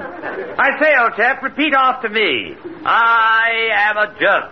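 plummy British voice; upper-class English, slow; posh English accent. Acted. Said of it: "Archie the hypnotist".

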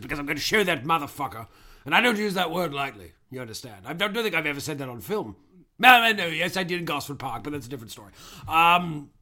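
lightly voiced old British actor; pompous old thespian, hint of bluster; Albert Finney impression. Plays Albert Finney character.

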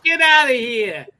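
high, loud get outta here; loud incredulous yell. Retold or imitated. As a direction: belt it out in disbelief. Echoing the outta here line.

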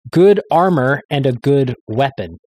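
slow, measured reading of a hymn text; solemn recitation. Acted. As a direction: read it like a stately declaration of faith. Reads his hymn translation aloud.

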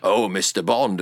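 low, put-on British Bond-film voice; British accent. British character greeting Mister Bond, low British accent. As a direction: drop low into a mock British purr. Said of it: "you, you, you're British".

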